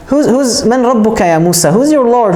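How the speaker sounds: mocking pharaoh, pitched high and scornful. Pharaoh mocks Musa in front of his court, scornful and high. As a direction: sneer at him like a scornful king, voice up high. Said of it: "he tells him mocking".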